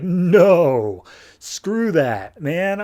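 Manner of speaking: loud drawn-out no, acted; mock emphatic refusal. Jason turning down Essence's invitation, mock emphatic refusal. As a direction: refuse outright, hamming it up.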